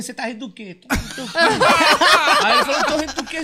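high, laughing challenge; laughing confrontation. Retold or imitated. Dwarf confronts man who laughed, high laughing. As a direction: jab through laughter.

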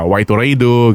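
put-on light Japanese-accented English. Host imitating the Japanese dub's white lady, mild Japanese accent. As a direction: say it the way the Japanese dub does, Japanese accent. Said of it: "syempre, Japanese accent na".

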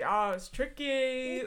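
slow, hammed-up Australian drawl; bad Australian accent. Joking reply to the grilling mates, bad Australian accent. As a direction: draw it out in poor mock Australian. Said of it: "that was not a good accent".

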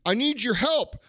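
mock pleading emailer. Host imitating people who email for help, mock pleading. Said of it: "people emailing me and saying".

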